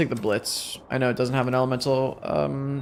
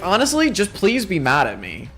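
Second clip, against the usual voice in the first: mock British accent; 6 semitones higher, 3 dB louder than usual. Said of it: "don't comment about that British accent".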